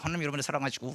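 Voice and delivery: words pushed out without opening the teeth; through clenched teeth. Shown as a demonstration. Preacher keeping bugs out of his mouth, teeth clenched. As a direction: keep the jaw clamped shut as you speak. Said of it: "이빨을 안 벌리고 이렇게 얘기하는 거야".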